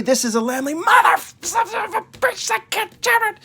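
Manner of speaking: very high strained cursing, voice cracking; frustrated swearing break. Retold or imitated. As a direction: lose it mid-intro. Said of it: "because I start with my friendly voice".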